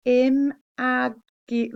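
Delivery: slow syllable-by-syllable imagi; sounded out. Shown as a demonstration. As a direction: stretch out Imagi- slowly. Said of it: "looks like imagion".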